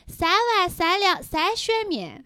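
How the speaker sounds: slow, nasal, flat-lipped Chengdu accent. Shown as a demonstration. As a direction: Chengdu accent, as if the nose is blocked. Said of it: "用四川话说出来". (成都话，鼻音重，嘴巴扁)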